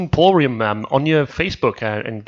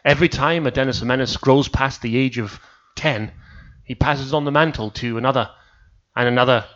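mock legend narration. Telling friends the legend of Dennis, solemn. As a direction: tell it like an ancient legend.

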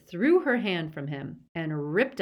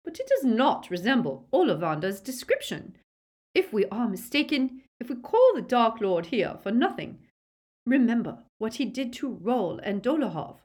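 cold, clear Narcissa; 6 semitones higher, 4 dB louder than usual. A narrator's reading. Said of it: "in her cold, clear voice".

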